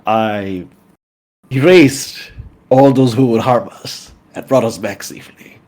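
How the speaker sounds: put-on mildly power-drunk boast, swelling on the key words. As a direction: savour the power, a touch grandiose. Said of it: "there's a lingering power drunkenness".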